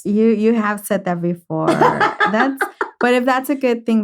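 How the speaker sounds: amused laughing reply. Real, not acted. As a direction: giggle through the tease. Teased about making her cry.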